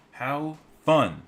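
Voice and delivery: high, loud and gleeful; a bigger cheerier take. Real, not acted. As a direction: crow it out with delight. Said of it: "repeats delivery".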